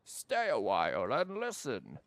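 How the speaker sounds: put-on slow old sage voice; a touch of a storytelling elder; old man voice. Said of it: "doing an old man voice".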